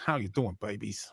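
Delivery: low shock-jock patter, close on the mic; lightly put-on shock jock voice. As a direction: play a smooth-talking radio shock jock. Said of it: "gonna be all shock jock".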